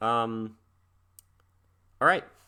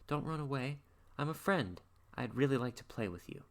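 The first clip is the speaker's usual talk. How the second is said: lightly voiced boy coaxing, higher; 7 semitones higher than usual. Boy coaxing the fleeing creature to come back, higher and sweet. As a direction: sweet-talk the creature into staying, pitched higher. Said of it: "and he's like".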